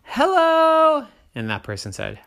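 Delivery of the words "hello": very high, loud hello; high sing-song hello; chirpy sister. A narrator's reading. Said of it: "sister said".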